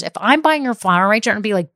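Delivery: usual speaking voice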